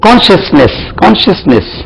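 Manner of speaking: கான்ஷியஸ்னஸ் said "kon-shus-ness", slightly high; careful pronunciation. Shown as a demonstration. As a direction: spell out கான்ஷியஸ்னஸ் as "konshusness". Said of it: "கான்ஷியஸ் இல்ல".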